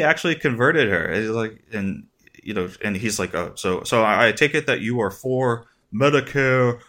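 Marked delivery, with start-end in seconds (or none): 3.3-6.8 put-on light Brooklyn accent, higher; a hint of Bernie's Brooklyn accent. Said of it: "do the Brooklyn accent like Bernie".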